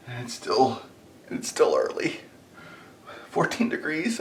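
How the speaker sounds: hushed early morning voice; soft, half-whispered; quiet. Real, not acted.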